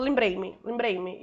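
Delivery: "lembrei-me" with the "me" swallowed, barely heard; European Portuguese pronunciation. Shown as a demonstration. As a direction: say "lembrei-me" Portugal-style, clipping the weak "me". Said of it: "você vai ver alguém falando". (pronúncia lusitana, com o "me" quase mudo)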